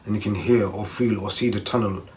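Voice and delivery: calm, measured meditation reading voice; guided meditation read. Acted. Vlogger reading a safe haven meditation to viewers, calm guided voice. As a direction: ease the listener gently down the path.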